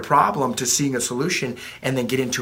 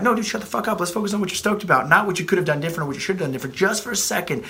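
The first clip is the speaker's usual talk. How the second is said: higher, blunt no-nonsense cut-off; blunt callout; 4 semitones higher, faster than usual. Retold or imitated. Coach cutting off a client's excuses, high and blunt. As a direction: snap the client out of it, fast on the middle line.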